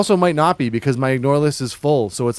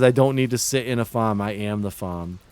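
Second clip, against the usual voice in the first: read in a voice; 2 semitones lower than usual. Pretend. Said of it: "I read that in the voice".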